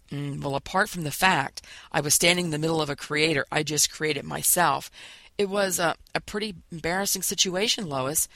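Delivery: halting, broken-up explanation with false starts; stammering. Acted. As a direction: stumble over the words, embarrassed. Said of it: "he stammered".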